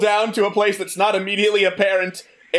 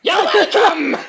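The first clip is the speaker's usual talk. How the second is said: high sing-song reply; 12 semitones higher, 6 dB louder than usual. Acted. GM answering in high voice.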